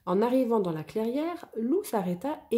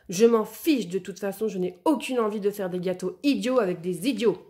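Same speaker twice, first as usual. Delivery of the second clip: angry; 3 dB louder than usual. Acted. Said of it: "très en colère".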